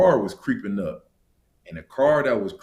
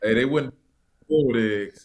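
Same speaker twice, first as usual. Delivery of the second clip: repeated louder for clarity; 2 semitones higher, 6 dB louder than usual. Real, not acted. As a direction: say it again, louder.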